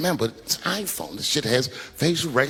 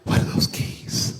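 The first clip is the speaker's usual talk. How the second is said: hushed question; 5 dB quieter than usual. Retold or imitated. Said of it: "She said".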